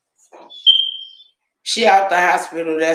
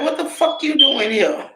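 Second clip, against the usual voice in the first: retold shock; 8 semitones higher than usual. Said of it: "We was like".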